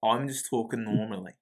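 insistent, put-on Australian accent. Claiming to co-host he talks normally, mock Australian accent. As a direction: deny the accent while doing mock Australian. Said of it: "to do his Australian accent".

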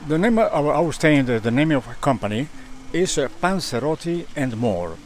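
Italian accent. Real, not acted. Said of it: "he has an Italian accent".

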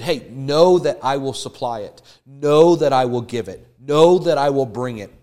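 loud, firm promise from God; booming voice of God making a promise; God's reassuring voice. Retold or imitated. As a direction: proclaim it like God speaking. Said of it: "He said".

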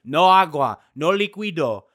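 loud mock yell in Spanish; imitated yelling. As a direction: imitate an official yelling a ban. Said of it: "yelling at me about the cocaine".

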